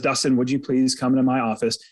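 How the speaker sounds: boss's summons. Retold or imitated. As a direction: put on a grave boss tone to call him in. Boss calls him in.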